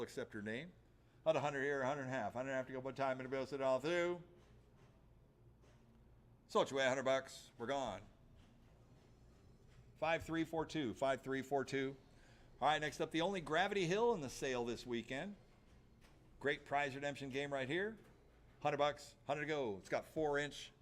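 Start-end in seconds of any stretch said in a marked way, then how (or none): 1.2-4.2 auctioneer. Acted. Auctioneer calling bids. 18.6-19.8 auctioneer. Acted. Auctioneer calling bids.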